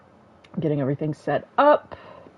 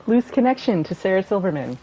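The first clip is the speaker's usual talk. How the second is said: "loose" 一词加重，稍响稍拉长; stress on loose. Real, not acted. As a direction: lean hard on "loose" to play down the link. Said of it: "Very, very emphasis on loose".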